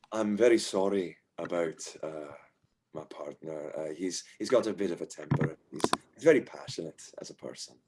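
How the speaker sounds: softly apologetic dwarf innkeeper; low-key, awkward apology. Acted. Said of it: "smiles apologetically and says".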